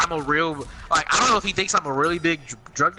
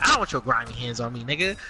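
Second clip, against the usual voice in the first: joking; 4 semitones lower than usual. Retold or imitated. Retelling joking with the cop about the search, light and low. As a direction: tease it off, not angry. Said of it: "The way I said this was in a joking manner".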